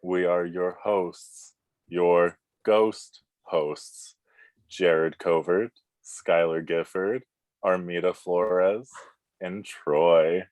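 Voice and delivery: a bass ghost host welcoming mortals. Acted. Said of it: "That was phenomenal".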